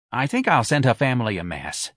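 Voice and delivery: lightly voiced neighborhood woman; a hint of local woman's voice; Santa's solemn decision. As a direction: announce it with modest sympathy. Santa's voice, echoed by Missus Riley.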